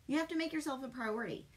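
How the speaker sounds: emphatic tough love. Real, not acted. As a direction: hammer the point home quickly. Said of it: "I'm about to put my tough love hat on".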